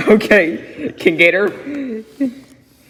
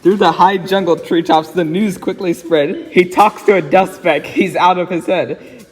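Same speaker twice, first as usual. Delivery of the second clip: put-on reading a rhyming story aloud to a child. A narrator's reading. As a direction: read it like a bedtime book. Reads Seuss story aloud.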